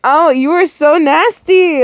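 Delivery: laughing, high-pitched exclamation; real amused disbelief; laughing bruh. Real, not acted. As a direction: burst out with it mid-laugh. Reader reacts laughing to scene.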